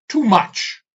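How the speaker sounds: sudden high cry; a sharp wail of refusal; loud outburst. A narrator's reading. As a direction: burst out in protest. Outburst of demon's thwarted desire.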